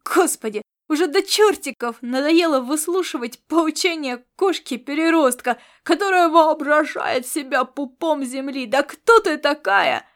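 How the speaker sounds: loud fed-up tirade; exasperated rant. Acted. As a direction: vent all the pent-up irritation. Laszlo ranting at the cat.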